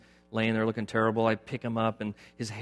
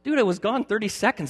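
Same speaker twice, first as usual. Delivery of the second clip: mock exasperated; 11 semitones higher, 5 dB louder than usual. Voicing self to the dog.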